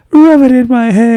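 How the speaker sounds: giddy high plea to rub it in; excited high request. Retold or imitated. Voicing Ling excitedly.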